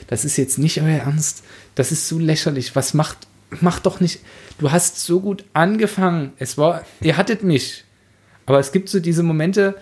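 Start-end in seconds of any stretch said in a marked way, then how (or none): 0.1-7.9 mock exasperation. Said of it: "wo ich gesagt hab".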